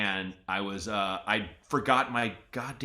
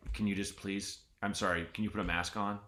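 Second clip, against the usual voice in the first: apologetic request; 3 semitones lower, 7 dB quieter than usual. Retold or imitated. Voicing polite worker asking about mask.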